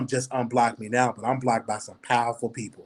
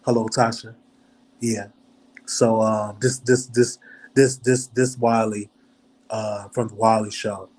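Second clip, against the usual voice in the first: a slightly lowered, put-on deep voice; real deep voice; 2 semitones lower than usual. Shown as a demonstration. Calling Tasha to ask about blocking, in a mock deep voice. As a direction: put on your deep voice, only a touch lower. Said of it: "I might do my real D voice".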